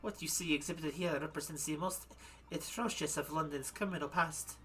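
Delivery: put-on German accent. Madame presents her criminal exhibits, German accent. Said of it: "gonna freaking go back into German again".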